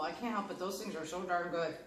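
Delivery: talking through a mouthful of crisp; chewing while chatting; mouth full. Real, not acted. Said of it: "I'm talking with my mouth full".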